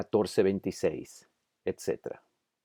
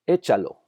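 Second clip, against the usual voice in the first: Échalo with first "É" punched louder; stress on accented syllable; 5 dB louder than usual. Shown as a demonstration. Teacher showing words with tilde, Échalo stressed on "É". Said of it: "sílaba que necesita ser enfatizada".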